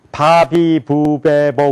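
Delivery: "바비부베보" in one joined run with unvoiced starts; Korean-style syllables. Shown as a demonstration. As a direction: say "바비부베보" forward, like light p sounds. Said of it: "그러잖아요".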